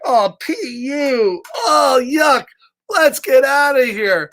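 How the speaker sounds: high, squeaky fly voices going yuck; disgusted flies. Acted. Flies fleeing the smelly pigeon, high squeaky disgust. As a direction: squeal it like tiny grossed-out flies. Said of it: "flies ... are even like".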